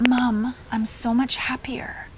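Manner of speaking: slow, hushed imitation of an upset child; retold tearful confession. Upset son confides in mom, retold tearful confession. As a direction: lightly imitate a child confiding through tears. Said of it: "huge meltdown and started crying".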